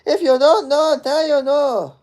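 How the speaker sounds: high, slow, put-on Israeli accent. Shown as a demonstration. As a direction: show off your Israeli accent as a model would. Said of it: "that's my Israeli accent".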